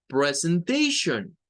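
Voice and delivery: "Presentation" said slowly as pre-sen-TAY-shun; slow, careful "Presentation" ending in shun; common pronunciation. Shown as a demonstration. Teacher to students, slow careful demo of "Presentation". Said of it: "la pronunciación más común".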